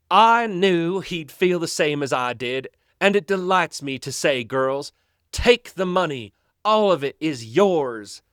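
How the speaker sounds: put-on mild Southern accent straining for posh British; southern accent faking British. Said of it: "very southern accent, but he's also trying to do a British accent poorly".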